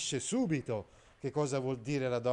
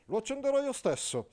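Agilulfo pompous; 11 semitones higher than usual. Acted. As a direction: declaim like a stiff courtly knight. Agilulfo answering. (Agilulfo, cavaliere pomposo, acuto e forte)

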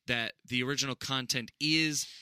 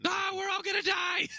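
mock panic. Mock panic about chemicals.

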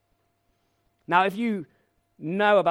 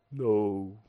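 lightly voiced Eeyore; 7 semitones lower than usual. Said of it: "'cause he's Eeyore".

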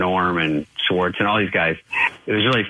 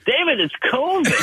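high, laughing mock protest; Norm's excuse through laughter; laughing imitation. Host retelling Norm's covid excuse, laughing mock voice. Norm refusing again, laughing.

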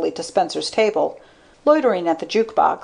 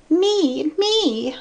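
much higher-pitched put-on woman's voice; insistent blonde; 11 semitones higher than usual. A narrator's reading. Blonde demanding attention from Spencer, high insistent voice. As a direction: pipe up high, insisting on being heard. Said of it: "the blonde with a feather cut was insisting".

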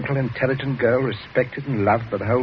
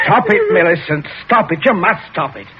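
stern commands; 6 semitones higher, 5 dB louder than usual. Acted. Father orders shaking daughter to stop.

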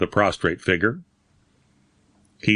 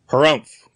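a louder, higher harumph grunt; 5 semitones higher, 5 dB louder than usual. A narrator's reading. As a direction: grunt it out in doubt. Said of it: "grunted Doctor Stoughton".

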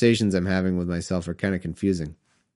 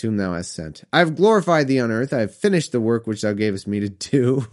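solemn scripture reading. Acted. Reading Jesus's prayer aloud, solemn scripture voice. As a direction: intone it like a preacher.

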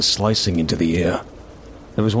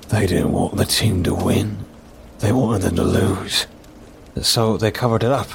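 fireside storytelling. Acted. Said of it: "over-exaggerated voices and actions".

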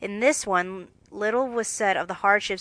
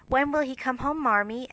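little quiver; 4 semitones higher than usual. Acted. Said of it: "with a little quiver in her voice".

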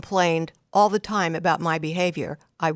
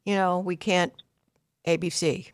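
mild, even demo of a calm parent; very calmly said. Shown as a demonstration. Parent explaining a consequence to defiant daughter, lightly calm. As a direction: lay out the consequence gently and steadily. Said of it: "So you very calmly say".

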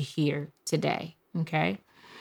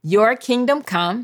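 slow call to repeat; 4 semitones higher, slower than usual. Shown as a demonstration. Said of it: "I need for you to say".

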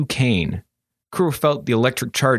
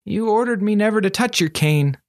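higher, whining apprentice; sniveling; 11 semitones higher than usual. A narrator's reading. Apprentice excusing himself to his master, sniveling. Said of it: "Kuro sniveled".

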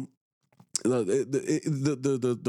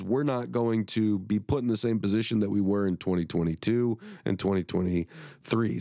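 hoarse, sick voice losing strength; 2 semitones lower than usual. Real, not acted. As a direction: speak through a sore, fading voice. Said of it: "now I'm sick and I'm losing my voice".

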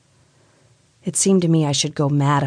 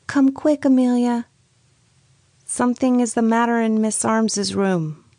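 put-on high, hurried older lady's voice; alarmed, hurrying her sister; urgent sister call; 9 semitones higher than usual. A narrator's reading. Miss Bird urges her sister.

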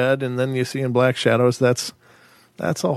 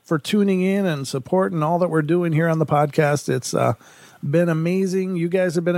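upbeat, higher-pitched host welcome; podcast intro; 6 semitones higher than usual. Real, not acted. Host thanking listeners for tuning in, upbeat welcome.

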